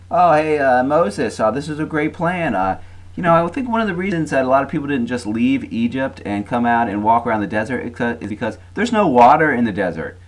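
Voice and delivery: high, loud sarcastic griping; mock grumbling. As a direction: play an indignant complainer, pitched well up. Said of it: "The grumbling again".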